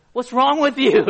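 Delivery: lightly hammed-up parental rebuke; mock stern parent scolding. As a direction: scold the child in a half-joking voice. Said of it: "Asian families are very strict and stern".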